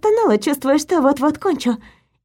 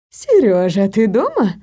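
calling out; 5 semitones lower than usual. Acted. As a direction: call out from afar. Mother calling from hall.

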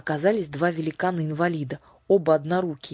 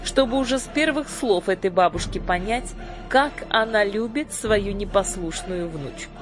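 high, commanding fairy-queen voice; imperious sorceress; 6 semitones higher, 3 dB louder than usual. A narrator's reading. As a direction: proclaim it from the throne. Lady Batp speech.

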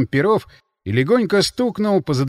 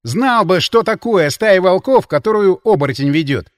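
loud, raised angry retort; angry hiss; 5 semitones higher, 7 dB louder than usual. A narrator's reading. Линь defends himself to the counterintelligence man, angrily. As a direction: snap back in indignation. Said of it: "зло прошипел Линь".

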